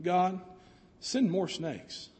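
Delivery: low, quiet, slow deadpan prayer; dry punchline. Retold or imitated. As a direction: drop it flat for the joke. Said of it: "He begins his prayer by saying".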